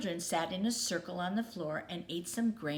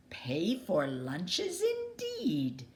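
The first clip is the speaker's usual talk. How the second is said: indignant scoff; much slower than usual. Acted. Pirates indignant at paying.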